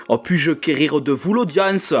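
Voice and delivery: put-on Marseille accent. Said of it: "des mots un peu soutenus avec l'accent marseillais".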